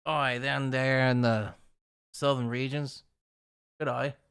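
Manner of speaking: put-on half-hearted Australian accent; attempted Aussie accent. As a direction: try an Aussie greeting, not quite landing it. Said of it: "I don't know if that's a good Aussie accent".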